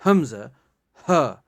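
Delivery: حمزہ spoken loud and crisp from the back of the throat; throat letter demo. Shown as a demonstration. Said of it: "وہاں پہ press تھوڑا انگلی رکھیے". (حمزہ کو حلق کے آخری حصے سے واضح ادا کریں)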